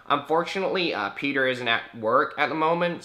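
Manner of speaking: lightly acted receptionist; apologetic phone helper. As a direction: mimic polite phone refusal. Imitates phone helper refusing.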